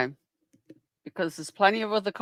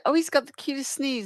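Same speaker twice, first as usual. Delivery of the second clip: mocking quote; 8 semitones higher, 4 dB quieter, faster than usual. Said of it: "So you're gonna say".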